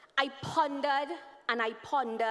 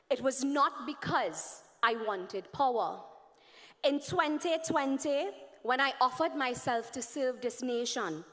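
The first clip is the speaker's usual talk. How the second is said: earnest reading of a letter; formal letter reading. Acted. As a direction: read it like a heartfelt address. Reads an open letter aloud.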